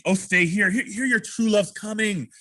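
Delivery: high, slow storytelling lilt; playful, lifted recitation; smiling. Shown as a demonstration. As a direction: draw it out sweetly with a smile. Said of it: "the smile on your face".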